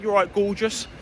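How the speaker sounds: put-on playful Cockney catcall to a passing girl; funny Cockney accent. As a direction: toss off a cheeky Cockney hello in passing. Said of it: "in a funny Cockney English accent".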